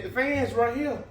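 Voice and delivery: talking while being tickled; words through tickled giggles. Real, not acted. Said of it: "It's tickling me".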